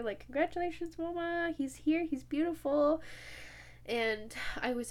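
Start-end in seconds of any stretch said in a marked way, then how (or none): 0.2-3.0 excited. Retold or imitated. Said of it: "they were so excited".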